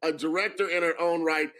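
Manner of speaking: normal talking voice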